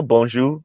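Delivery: "bonjour" the Haitian Creole way, nasal bon, ending jou with no r; "bonjour" soft, Creole style, trailing off. Shown as a demonstration. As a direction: say "bonjour" as bon-ZHOO, dropping the final r. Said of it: "that's how we say it in Creole".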